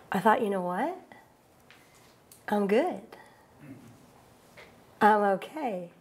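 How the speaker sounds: low, soft, stunned; quiet heartbreak, holding steady; lonely. Real, not acted. Alone on New Year's, quietly facing heartbreak.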